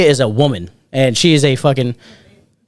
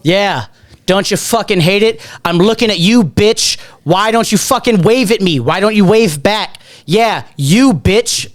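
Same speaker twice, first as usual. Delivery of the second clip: high-pitched imitation of a belligerent drunk calling out; retold aggressive hollering; louder mock rant; 6 semitones higher than usual. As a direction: heckle across the party, pitched up. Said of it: "says it again, even louder".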